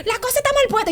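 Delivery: mock alarm, high pitched; alarmed complaint. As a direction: squeak out the bad news.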